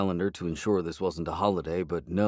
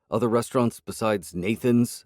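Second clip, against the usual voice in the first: snapped back; 3 semitones higher, 4 dB louder than usual. Acted. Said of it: "I snapped back".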